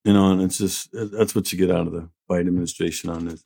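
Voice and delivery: ordinary talk, nothing marked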